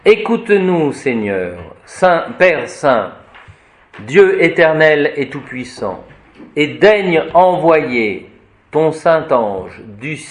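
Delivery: slow, solemn liturgical reading; prayer recitation. Acted. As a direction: intone the blessing like at the altar. Reads the house blessing prayer.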